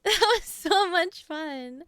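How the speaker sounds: slow, laughing through the words. Real, not acted. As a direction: laugh while you say it. Laughing after the clip.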